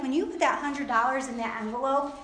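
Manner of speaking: lightly voiced devil mocking an offering; devil talking. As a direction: scoff at the gift like the tempter. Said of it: "That's how the devil talks".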